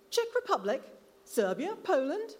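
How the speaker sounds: loud, high taunting guesses; calling out. Acted. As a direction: keep hurling guesses at his back. Eric keeps calling after boy.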